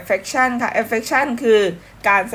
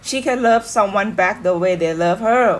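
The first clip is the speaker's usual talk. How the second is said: slow lyric read; much slower than usual. Shown as a demonstration. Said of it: "เนื้อเพลง".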